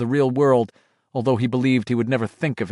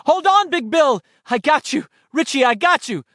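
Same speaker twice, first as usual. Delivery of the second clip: urgent shout; 13 semitones higher, 4 dB louder than usual. Acted. Gripping Richie across the void.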